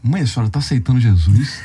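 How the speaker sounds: disbelieving question to mom; retold incredulous question. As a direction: ask your mother as if you can't believe it. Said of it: "eu incrédulo, eu cheguei pra ela".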